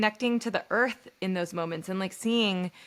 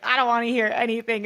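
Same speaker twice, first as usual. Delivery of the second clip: fast, loud, exasperated quote; fed-up grieving self; 4 semitones higher, 6 dB louder, faster than usual. Retold or imitated. Grieving widow shutting everyone out, fast and loud. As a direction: blurt it out like you can't take any more. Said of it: "you're just like".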